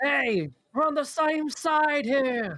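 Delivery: shrill, very high, full-throated, top-of-the-lungs shout. A player character calls out to the crow person, shouting at the top of lungs. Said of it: "Like shouting at the top of the lungs".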